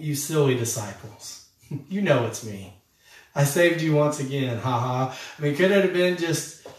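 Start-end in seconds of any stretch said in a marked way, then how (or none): 0.0-5.2 lightly voiced playful Jesus; a touch of mock teasing. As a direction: rib your friends with a chuckle. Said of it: "more playful or kidding".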